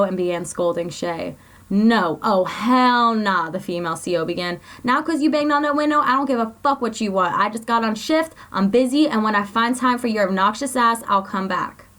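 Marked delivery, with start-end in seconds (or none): 1.7-3.5 scolding. Acted. CO scolding Shay. 4.8-11.9 raised, louder sassy scolding; guard snapping at an inmate, annoyed and loud; angry scolding. Acted. CO scolds Shay at window.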